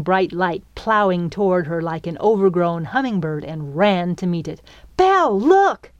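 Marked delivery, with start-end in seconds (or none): 5.0-5.9 high, loud eager shout; excited call. A narrator's reading. Girl running to meet the fairy, excited call. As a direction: call out, thrilled to show her.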